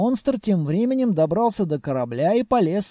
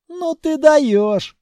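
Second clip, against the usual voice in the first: delighted; 8 semitones higher, 6 dB louder, much slower than usual. Acted. Captain praises monster.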